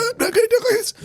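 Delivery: high, whiny villain imitation; brain worm voice. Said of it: "sound like he's a fucking brain worm".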